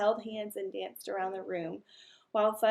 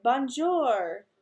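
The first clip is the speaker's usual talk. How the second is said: bird voice; 3 semitones higher, 6 dB louder than usual. Acted. Bird greets Peter.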